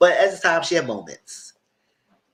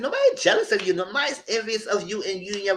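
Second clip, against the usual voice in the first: laughing dismissal; 7 semitones higher than usual. Real, not acted.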